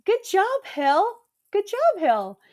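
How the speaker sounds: high, bright self-cheer; chirpy pep talk to herself; self-praise. Retold or imitated. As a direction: cheer yourself on like a coach. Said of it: "I say this out loud in the hotel room".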